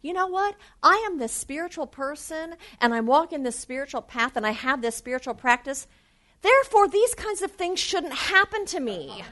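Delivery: mock the smug inner voice of a spiritual seeker; smug spiritual person. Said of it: "sometimes what happens too is you think".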